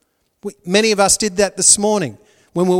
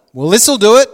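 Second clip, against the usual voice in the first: louder, eager hope that he'll love her; a wife hoping her husband finally loves her, louder; hopeful Leah; 4 semitones higher, 9 dB louder than usual. Retold or imitated. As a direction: voice Leah pleading to be loved, louder. Voicing Leah's hopeful words.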